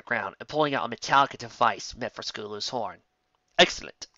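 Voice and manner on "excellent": whisper. Acted. Villain's whispered approval.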